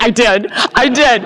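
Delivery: high, giddy I did I did; overjoyed. Retold or imitated. Telling the shopper she won, giddy and high. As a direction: bubble over with joy.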